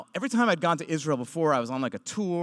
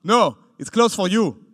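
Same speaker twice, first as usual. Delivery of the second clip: slow, loud refusal; soldier's firm refusal; 4 semitones higher, 8 dB louder than usual. Retold or imitated. Soldier refusing the Jewish comic entry, slow firm refusal. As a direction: lay it down firmly.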